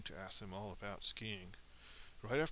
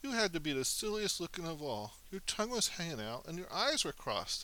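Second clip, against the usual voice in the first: excited teasing; 7 semitones higher, 5 dB louder than usual. Acted. Children teasing the moose.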